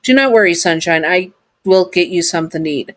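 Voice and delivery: robot voice. Acted. Sun robot voiced in story.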